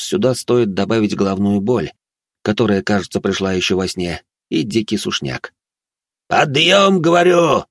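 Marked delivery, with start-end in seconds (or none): 6.3-7.6 loud, high barking order; roaring wake-up call. Acted. Bazhenov roars his hungover friend awake. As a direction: roar him awake. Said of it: "рык Баженова".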